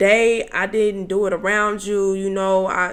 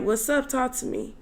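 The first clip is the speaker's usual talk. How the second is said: higher, softer check-in; retold coaxing; 5 semitones higher, 4 dB quieter than usual. Speaker asking the frustrated passenger to talk, coaxing. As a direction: gently prompt him to open up, pitched up.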